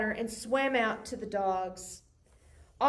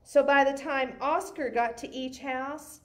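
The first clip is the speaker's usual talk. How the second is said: put-on lively read-aloud for kids; story narration. A narrator's reading. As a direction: tell it like a bedtime picture book. Reads picture book aloud.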